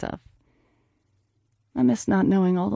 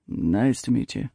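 low slow man's voice; 7 semitones lower than usual. Acted. Rex's low voice continues.

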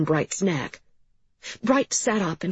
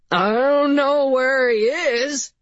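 pleading; 8 semitones higher, 5 dB louder, slower than usual. Acted. Pinned man pleads under a boot.

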